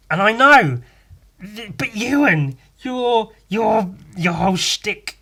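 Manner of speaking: loud, pitch jumping up, accusing; half-joking indignation at the hypocrite; mock outraged rant. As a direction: call yourself out like an indignant friend. Mock rant at himself as Ewan.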